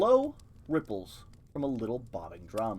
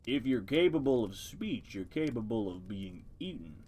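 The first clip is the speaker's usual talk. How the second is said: deep voice; 3 semitones lower than usual. Acted. Turtle in the mud lecturing the mice, lightly deepened voice. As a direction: read it a touch deeper, ponderous and pedantic. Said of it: "give it a deep voice".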